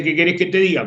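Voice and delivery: mildly resigned falling answer; resigned exclamation. Shown as a demonstration. Teacher quoting the how-are-you answer, mildly resigned. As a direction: let it imply things go badly. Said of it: "con ese tono significa, "Me va mal".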